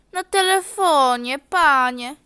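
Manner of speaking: hammed-up huffy reply; loud answer. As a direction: shout it at him. Passenger answers loudly.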